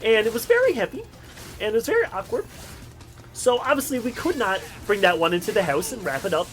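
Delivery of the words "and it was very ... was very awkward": VERY pitched high and leaned on; emphatic stress on very. Real, not acted. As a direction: hit each "very" with a high, deliberate punch. Stressing how unwieldy the toolbox was.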